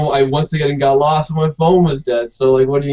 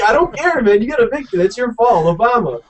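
mock dismissive; 8 semitones higher than usual. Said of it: "I'm like".

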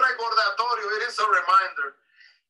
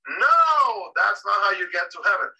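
put-on kids shouting no; 4 dB louder than usual. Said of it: "all the kids answered".

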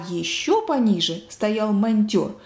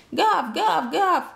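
higher-pitched "gav" yaps; dog barking; 7 semitones higher, much slower than usual. A narrator's reading. Earless dog joining the chatter, high voiced barking. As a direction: bark the syllables like a dog. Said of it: "лаяла безухая и безглазая собака".

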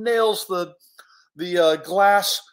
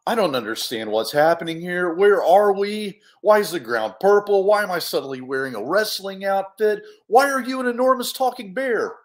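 mounting bewilderment; 4 dB louder than usual. Acted. Hero questioning the bear, mounting bewilderment. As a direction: pile up the questions, more frantic each time.

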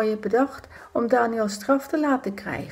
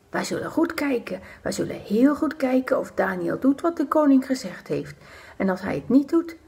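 scheming whisper; 4 semitones higher than usual. Acted. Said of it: "Ze fluisterden".

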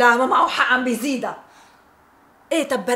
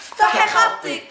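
teasing laugh; 7 semitones higher, slower than usual. Acted. صديقتها تلحّ عليها ضاحكة.

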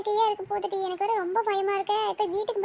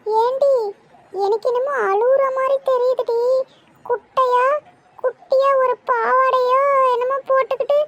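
louder, alarmed; louder scared voice describing a crying ghost; frightened telling; 3 semitones higher, 6 dB louder than usual. Acted. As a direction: blurt out what you see, panicking. Frightened friend sees the ghost.

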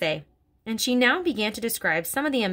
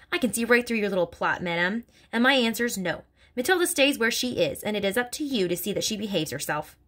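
headmistress accusing; 2 semitones higher than usual. Acted. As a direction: hammer the accusation home. Headmistress refusing.

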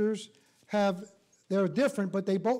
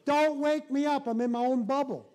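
excited; 5 semitones higher, 4 dB louder than usual. Real, not acted. Playful dreamy aside.

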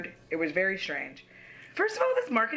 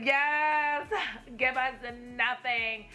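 mock cheer; 4 semitones higher, much slower than usual. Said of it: "I can't say it any other way sometimes".

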